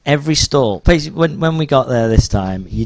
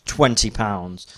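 higher, louder market-stall pitch; salesman voice; 6 semitones higher, 3 dB louder than usual. Retold or imitated. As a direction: sell it to the crowd. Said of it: "And then he's like".

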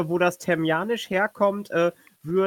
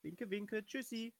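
whispered goodbye; 3 semitones higher, 21 dB quieter than usual. Acted.

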